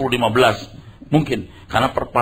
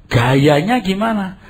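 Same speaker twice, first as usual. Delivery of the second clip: ordinary talk, nothing marked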